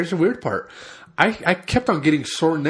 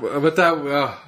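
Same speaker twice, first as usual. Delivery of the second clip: holding back a sneeze; 4 semitones lower, slower than usual. Real, not acted. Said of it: "I'm trying not to sneeze".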